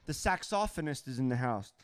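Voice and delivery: saxophonist said the British way, sax-OFF-onist; pretend British accent. Greeting a saxophonist in the house, pretend British accent. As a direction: put on a playful British accent. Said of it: "pretend to make a British accent".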